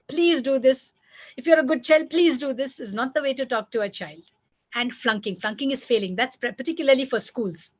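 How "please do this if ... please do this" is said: mild, raised-pitch coaxing; pleading parent. Shown as a demonstration. Parent coaxing a good child to comply, pleading. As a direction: coax the child with a light plea. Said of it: "Stop pleading with your child".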